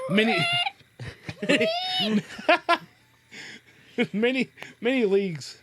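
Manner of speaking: a hint of an eagle, breaking into a high laugh; eagle voice attempt. Reading the eagle's answer to Gandalf, lightly voiced eagle with laughter. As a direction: try a lofty eagle voice and crack up. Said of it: "How does an eagle sound?".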